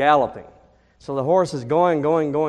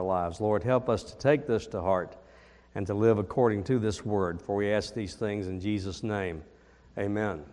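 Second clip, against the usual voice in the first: prayer; 4 semitones lower than usual. Acted. Leads congregation in prayer.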